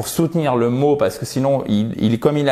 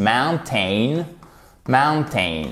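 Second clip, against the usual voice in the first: mountain with the stress on the first syllable MOUN; slow stress drill on mountain; much slower than usual. Shown as a demonstration. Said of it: "votre accent tonique juste ici".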